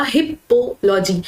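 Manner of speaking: हिपोलॉजी split as हिप, पो, लॉजी; small breaks inside हिपोलॉजी after हिप and पो; broken into parts. Shown as a demonstration. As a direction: sound out हिपोलॉजी in chunks. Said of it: "तुरंत आपके दिमाग में आएगा".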